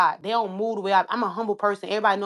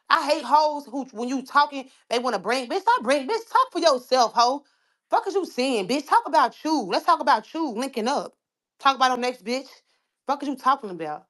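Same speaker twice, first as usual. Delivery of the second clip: angry; 4 semitones higher than usual. Real, not acted. Heated rant at rivals.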